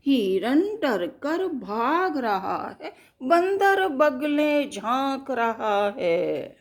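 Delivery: put-on slow rhythmic children's poem recital. Reciting a tiger poem to children, slow and rhythmic. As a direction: chant each line like a nursery rhyme.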